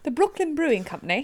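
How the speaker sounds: a light mock Brooklyn accent on "The Brooklyn Brewing Company". Cohost jokingly says the brewery name in a light Brooklyn accent. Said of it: "you can just say it with an accent then".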